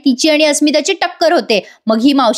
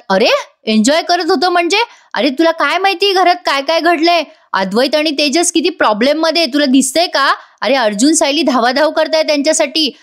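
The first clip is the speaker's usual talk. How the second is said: scolding father; 4 semitones higher than usual. Retold or imitated. Father scolds son in retold scene.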